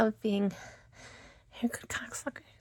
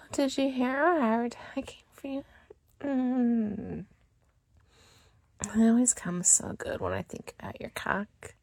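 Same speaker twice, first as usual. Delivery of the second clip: afterglow whisper; 4 dB quieter than usual. Acted. After climax, whispering to her partner for more.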